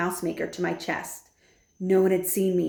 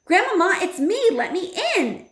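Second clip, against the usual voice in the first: very high, loud desperate call; boy shouting to grandmother through the door; 12 semitones higher, 5 dB louder than usual. A narrator's reading. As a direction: yell to be let in. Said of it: "I shouted as loudly".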